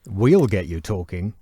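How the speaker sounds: slow announcer read of the slogan; radio voiceover voice. Shown as a demonstration. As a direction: say it like a station ident. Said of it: "in his radio voiceover voice".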